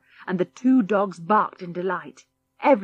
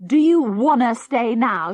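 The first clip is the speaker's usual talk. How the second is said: mild shout; 4 semitones higher, 6 dB louder than usual. Acted. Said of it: "shouted George as he went".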